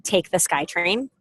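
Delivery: slow, rising, incredulous echo; slow offended question; offended disbelief. Retold or imitated. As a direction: repeat it as if insulted. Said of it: "I was quite offended".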